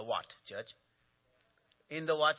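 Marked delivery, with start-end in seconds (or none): 1.9-2.4 call for response. Real, not acted. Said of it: "Say it a little louder".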